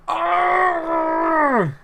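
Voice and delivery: a high burst of delight; joyful shout. Real, not acted. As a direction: let out a happy cry. Celebrating Wally's goal.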